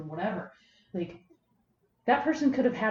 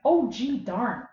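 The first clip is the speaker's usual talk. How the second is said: put-on Minnesotan accent; 2 semitones higher, much slower than usual. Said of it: "I say with a very Minnesotan accent".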